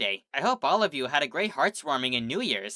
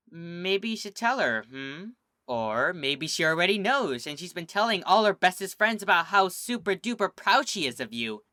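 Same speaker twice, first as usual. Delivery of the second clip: higher, bright and building with glee; bubbly encouragement; 5 semitones higher, 3 dB louder than usual. Acted. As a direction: coax her cheerfully, rising to super-duper proud. Pinkie encouraging Sweetie.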